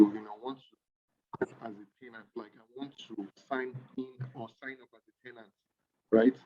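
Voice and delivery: bad connection, level dropping away; glitchy pitch jumps. Real, not acted. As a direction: voice cutting in and out. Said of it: "your voice keeps going up and down".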